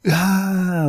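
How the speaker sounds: high-pitched retold yell, not full force; mock scream. Retelling a father's prank scream at his wife, mock scream. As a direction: imitate a startled scream at modest volume. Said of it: "he screams like".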